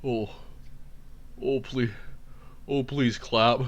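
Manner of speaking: lightly voiced pleading politician; Jeb Bush. Comedian's politician begs an audience, light Jeb Bush impression. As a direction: plead softly, a hint of impression. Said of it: "we've got Jeb Bush".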